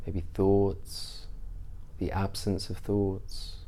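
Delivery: measured meditation guide, long pauses between phrases; guided meditation. Real, not acted. Teacher leading listeners through a mindfulness practice, guided meditation. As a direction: ease listeners into stillness, unhurried and even.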